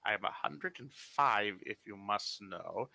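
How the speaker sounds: slow, cold threat from an elder; slow menacing old wizard. Acted. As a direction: menace them slowly.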